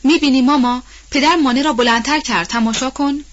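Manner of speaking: high and loud, bursting with glee; joyful shout. Acted. Girl boasting to her mother about the jump, joyful shout. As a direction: cry out happily to mama. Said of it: "خوشحالی کنان فریاد زد".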